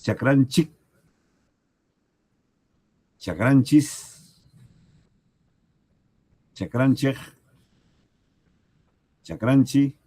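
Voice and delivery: chakranchis, chakranchik, chakranchej said slowly and loud, each ending clearly different; teacher lists the regional ways of saying our field; regional variants. Shown as a demonstration. Variantes regionales. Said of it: "Hay distintas maneras de pronunciar".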